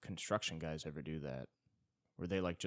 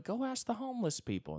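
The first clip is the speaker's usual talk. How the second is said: desperate protest. Acted. Arguing with the cop.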